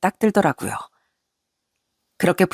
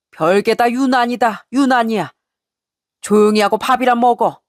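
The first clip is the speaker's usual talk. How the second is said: gruff scolding father-in-law; 3 semitones higher than usual. Retold or imitated. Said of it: "버럭 화를 내며".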